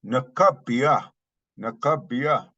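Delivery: slow, emphatic "Nakabia"; "Nakabia" slowed for emphasis; added emphasis. Shown as a demonstration. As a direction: say "Nakabia" deliberately, with weight. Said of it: "adding emphasis".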